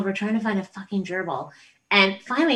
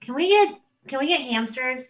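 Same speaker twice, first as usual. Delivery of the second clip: put-on kid begging; 5 semitones higher than usual. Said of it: "But they're like".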